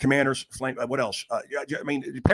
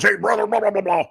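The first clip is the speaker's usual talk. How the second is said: high, babbling retold phone greeting; hearty mock greeting; 8 semitones higher, 4 dB louder than usual. Retelling a call with Jones, hammed-up hearty greeting. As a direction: imitate a buddy gushing on the phone.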